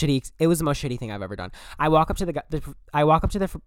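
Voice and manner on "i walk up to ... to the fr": rushing. Real, not acted. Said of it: "Slow down".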